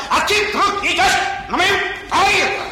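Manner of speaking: high, hurt whine; whiny complaint. Acted. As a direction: sulk like an offended child. King whining about his hurt feelings.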